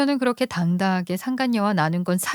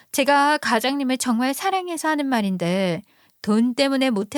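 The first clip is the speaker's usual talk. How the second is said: put-on higher, sweet yet brazen young woman; brazen mistress; 4 semitones higher than usual. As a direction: needle the wife politely. Mistress speaks up again. (뻔뻔하게 상냥한 상간녀 목소리)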